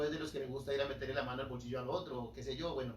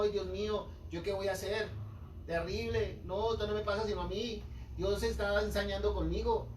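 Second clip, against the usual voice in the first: higher, louder, hammed-up wail of self-pity; mock whining complainer; 6 semitones higher, 5 dB louder than usual. A preacher mocking a congregant who whines about hardship. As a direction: play the believer crying that God picks on him. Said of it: "salir llorando diciendo".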